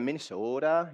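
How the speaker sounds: Minnesota accent with long rounded O. Shown as a demonstration. Pastor listing regional dialects, playful Minnesota accent. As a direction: lean into a comic Minnesota accent. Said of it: "I love accents and dialects".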